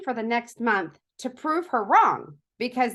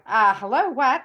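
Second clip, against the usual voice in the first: indignant mom; 2 semitones higher, 6 dB louder than usual. Retold or imitated. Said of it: "I'm like".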